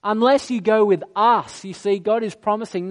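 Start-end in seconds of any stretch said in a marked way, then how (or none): 0.0-1.6 louder firm "No, God, no"; louder, emphatic mock protest; insistent refusal. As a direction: refuse flatly and plead. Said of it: "And Moses is like".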